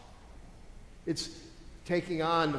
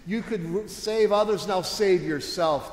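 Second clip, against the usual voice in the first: higher-pitched acted taunt; mocking challenge; 4 semitones higher, 4 dB louder than usual. People at the cross mock Jesus with a raised taunt. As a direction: taunt him, punching the words out. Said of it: "they would mock Jesus".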